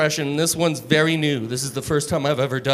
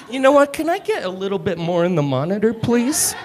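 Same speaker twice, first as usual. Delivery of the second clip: higher rocker request; rocker at the mic; 5 semitones higher than usual. Retold or imitated. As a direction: call to the sound guy like a frontman. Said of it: "the heavy metal mic check".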